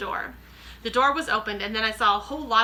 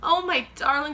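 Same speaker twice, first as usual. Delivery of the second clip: relieved and tender; 6 semitones higher, 5 dB louder than usual. Acted. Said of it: "she cried".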